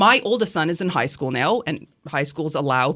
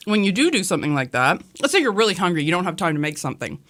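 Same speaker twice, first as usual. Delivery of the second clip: sticky mouth, peanut butter; words through peanut butter; mouth full of peanut butter. Real, not acted. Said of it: "my mouth is sticking together".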